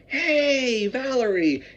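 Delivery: imitated high, drawn-out greeting call; loud greeting. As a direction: mimic a customer hailing a friend across the shop. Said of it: "they're greeting someone".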